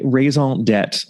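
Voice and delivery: raison d'etre in a light mock-French accent; casual bad French accent. Shown as a demonstration. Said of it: "I will continue to employ my bad French accent".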